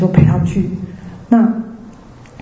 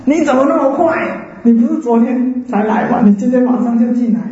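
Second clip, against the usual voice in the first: surprised; 4 semitones higher than usual. Retold or imitated. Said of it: "她非常的惊讶".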